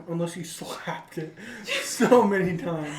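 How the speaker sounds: giggling through the words; amused laughing delivery. Real, not acted. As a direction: laugh while getting the joke out. Joking about slapping the chicken.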